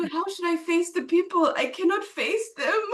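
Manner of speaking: laughing through tears. Retold or imitated. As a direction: retell the despair, crying and laughing at once. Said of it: "And I said".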